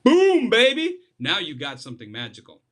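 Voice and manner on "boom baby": loud, high burst of triumph; exclamation. Shown as a demonstration. Coach celebrating the magic moment, a loud triumphant shout. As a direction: shout it like a victory. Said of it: "repeating certain words for emphasis".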